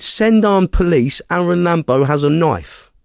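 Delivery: high, drawn-out retold plea for police; urgent emergency call. Mimicking the attacker calling police, urgent emergency call. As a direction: imitate an insistent caller, starting high and stretched.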